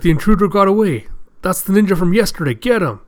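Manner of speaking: rally the guards to give chase; raising the alarm. Acted.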